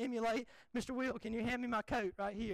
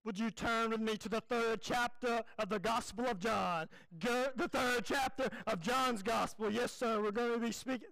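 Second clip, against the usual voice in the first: Billy Graham impression; 2 semitones lower than usual. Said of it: "I'm gonna emulate, um, Billy Graham".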